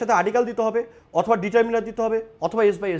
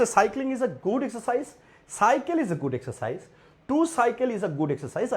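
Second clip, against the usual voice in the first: slow reading of options; 4 dB quieter, much slower than usual. Shown as a demonstration. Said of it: "বলছে".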